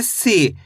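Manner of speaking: "सी" with a drawn-out ee; long ee. Shown as a demonstration. Teacher answers how to read it, long ee in "सी". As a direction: hold the vowel in "सी". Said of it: "खींच के पढ़ा जाता है".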